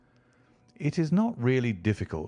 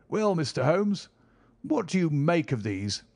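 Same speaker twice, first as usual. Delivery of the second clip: higher, eager visitor's voice; eager country gentleman; 7 semitones higher than usual. Acted. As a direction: call out keenly as the ruddy squire. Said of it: "he cried".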